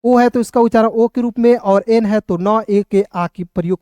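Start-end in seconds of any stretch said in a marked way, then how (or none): 0.0-0.3 slow, letter sound drawn out; teacher showing a letter sound slowly; slow careful explaining. Shown as a demonstration. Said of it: "अब देखिए यहाँ पे एस ओ एन ए".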